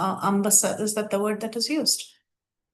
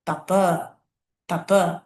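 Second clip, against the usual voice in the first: mystic voice calling; 3 semitones lower than usual. Retold or imitated. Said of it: "He heard a vibration saying".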